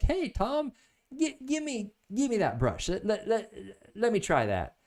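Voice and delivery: put-on high, eager kid voice, stumbling over words; a small boy pleading to grab the brush; begging little boy. Neighbor boy begs Tom to let him paint, high and eager.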